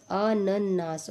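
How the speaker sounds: slow अनन्नास, split "a-nan-naas"; syllable-by-syllable demo. Shown as a demonstration. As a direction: spell out अनन्नास by sound, slowly. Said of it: "अनन्नास बिल्कुल ठीक है".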